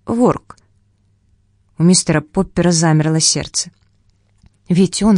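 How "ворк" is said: penguin call. Acted. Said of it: "раздалось слабое".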